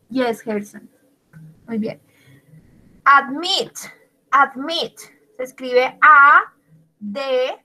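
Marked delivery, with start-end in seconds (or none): 3.0-5.0 "Admit" stressed on the final "mit"; stress on last syllable. Shown as a demonstration. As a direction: lean on "mit" in each "admit". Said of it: "lleva la sílaba entonada en la última". ("admit" con el acento en la última sílaba, "mit")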